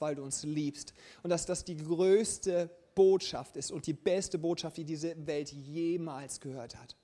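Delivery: inbrünstig gesprochenes Gebet. Acted. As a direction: bete vor der Gemeinde. Leads closing prayer for congregation. (inbrünstiges Gemeindegebet)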